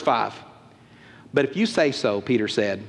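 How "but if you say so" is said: low, reluctant agreement; unenthusiastic. Acted. Peter gives in to Jesus, unenthusiastic. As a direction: give in with no enthusiasm. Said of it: "Does he sound enthusiastic?".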